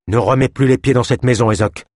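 firm rebuttal to the healer; retort. Acted. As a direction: stand your ground and send him off. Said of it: "riposta Gwenil".

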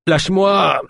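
high, pained cry to let go; moaning plea. Acted. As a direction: beg from under the weight. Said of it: "gémit-il". (gémissement aigu et suppliant)

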